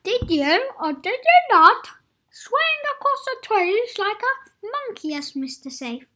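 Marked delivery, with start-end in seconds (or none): 0.0-5.1 loud, higher accusing questions; stern interrogation. Acted. Mister Safe grilling Adventurous, stern accusing. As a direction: grill him like a prosecutor.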